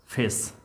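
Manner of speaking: "फेस" ending in a clear S; pronunciation demo. Shown as a demonstration. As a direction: say "फेस" alone, final S sounded. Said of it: "इसका उच्चारण स होगा".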